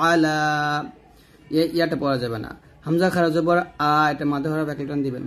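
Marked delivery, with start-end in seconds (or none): 0.1-0.4 আলা with লা held one alif long; stretched la. Shown as a demonstration. Teacher models the lengthened vowel for students. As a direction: draw out the লা in আলা. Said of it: "লাতে একটা টান হবে".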